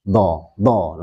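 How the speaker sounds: "do" released freely, without a catch; smooth-flowing dhad. Shown as a demonstration. Teacher showing the letter runs on freely, flowing "do". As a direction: let "do" flow straight out. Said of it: "Lancar saja".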